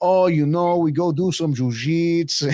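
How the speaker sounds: slow, drawled, put-on Brazilian accent colouring English. Retelling how a jiu-jitsu fighter talks now: imitating Mackenzie Dern's Brazilian accent. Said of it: "the Brazilian accent started to get there".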